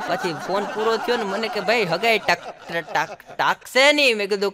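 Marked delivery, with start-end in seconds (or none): 1.6-4.2 slow, halting stammer; a stammering friend fearing the engagement breaks. Retold or imitated. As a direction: drag and stumble over the word.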